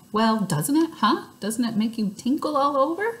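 high, gushing little show-off; gushing Lucille. A narrator's reading. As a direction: gush it out like a spoiled girl showing off. Lucille pressing the kids.

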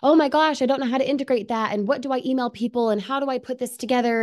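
high, fast flustered overwhelmed beginner; mock newbie panic. Presenter mimics an overwhelmed newbie for webinar viewers, high and flustered. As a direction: rattle off worries like a panicking newbie.

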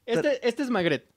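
pointing out the puppet, mock kids' host; kids' show host. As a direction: keep the children's host voice going. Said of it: "la chivita les va a platicar".

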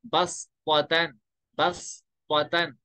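बस पतन very slow, seen not saad; s instead of saad. Shown as a demonstration. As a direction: say बस पतन slowly with a seen sound. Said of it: "स्वाद की जगह क्या पढ़ेंगे". (बस पतन धीरे, सीन के साथ)

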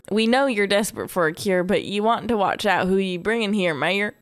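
lightly put-on Southern accent for a wary townsperson; makeshift Southern accent. Townsperson warns the mayor about newcomers, makeshift Southern accent. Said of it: "I'm making it Southern 'cause I can't do".

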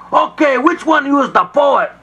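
high shouted demand; angry shout. Acted. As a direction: bark it at the pigs. Landlord kicks door in.

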